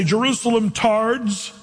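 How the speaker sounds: drawn-out sneer; mock insult. Preacher imagining Jesus insulting Jerusalem, slow mock sneer. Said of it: "He didn't say".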